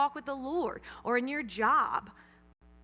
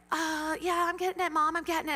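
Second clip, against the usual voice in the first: higher voice imitating a daughter; daughter's reply; 4 semitones higher than usual. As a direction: put on a kid fending off mom. Retold daughter answering nagging mother.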